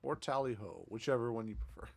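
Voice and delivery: playful Cockney lilt; Cockney accent. Pretend. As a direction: toss it off in a jokey Cockney accent. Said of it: "why am I talking in a Cockney accent?".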